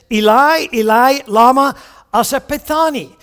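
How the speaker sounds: Eli, Eli, lama sabachthani chanted out loud in Aramaic; loud biblical Aramaic cry. Shown as a demonstration. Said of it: "the psalmist says".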